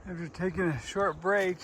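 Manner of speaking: breathless while climbing; panting between words; out of breath. Real, not acted. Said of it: "Sorry about the breathing".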